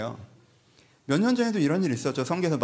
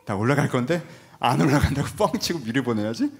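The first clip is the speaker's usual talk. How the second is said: laughing Jesus; 3 semitones lower, 3 dB louder than usual. Acted. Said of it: "이러고 하시".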